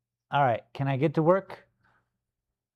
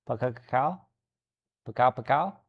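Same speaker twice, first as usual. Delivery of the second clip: tentative thunder noise. Shown as a demonstration.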